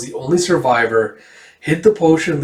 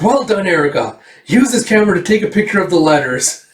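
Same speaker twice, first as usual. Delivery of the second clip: lifted, eager praise; hurried, pleased command to a helper; excited higher-pitched instruction; acted delight; 4 semitones higher than usual. Villain delighted, orders a photo.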